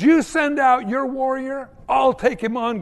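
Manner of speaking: lightly voiced giant bellowing a dare; Goliath yelling. Goliath challenging Israel's camp, a mock yell. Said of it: "Goliath yelled".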